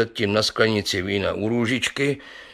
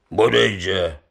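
zvolání; 2 semitones lower than usual. Acted. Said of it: "zvolal Sládek Pivoňka".

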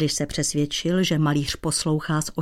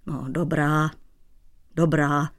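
softening; 2 semitones lower than usual. Acted. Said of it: "měkl Dratvička".

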